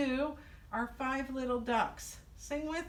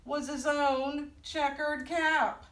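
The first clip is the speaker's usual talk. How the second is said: higher, lively picture-book telling; higher-pitched children's storyteller; storytime read-aloud; 6 semitones higher, 4 dB louder than usual. A narrator's reading. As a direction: read it out to little listeners with clear pauses.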